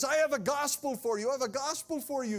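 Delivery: high, loud proclamation; announcing messenger. Acted. Messenger at the door with good news, heralding loudly.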